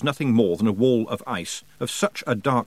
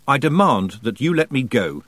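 snapping; 4 dB louder than usual. Acted. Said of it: "Tiffany snapped".

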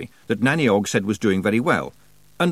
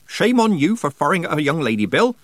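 put-on high, raised scolding old witch; severe scolding; 8 semitones higher, 5 dB louder than usual. A narrator's reading. Nanny scolds old man for shooting at girl, severely. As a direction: tell him off firmly. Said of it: "said Nanny severely".

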